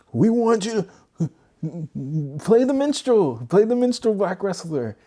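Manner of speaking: mock WWE boss voice. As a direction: lampoon the bosses barking orders.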